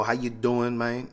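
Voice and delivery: light attempt at a New Jersey accent; joking, half-hearted New Jersey accent. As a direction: try on a New Jersey greeting, barely pushed. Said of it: "my attempt at an accent".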